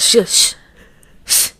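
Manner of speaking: voiceless sneaky shush; shushing whisper. Retold or imitated. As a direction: hush like a sneaky toddler. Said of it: "she's trying to be sneaky".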